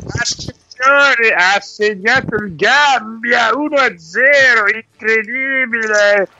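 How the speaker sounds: breathless italian goal commentary. Pretend. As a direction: yell it like a TV football commentator. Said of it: "prenda fiato".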